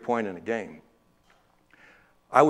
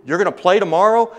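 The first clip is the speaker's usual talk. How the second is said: surprised; 7 semitones higher, 6 dB louder than usual. Retold or imitated. Teacher's surprised reply.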